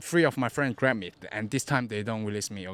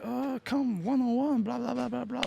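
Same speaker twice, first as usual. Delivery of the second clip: mock taunting challenge; 12 semitones higher than usual. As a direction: egg him on like a cocky brawler. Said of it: "like this".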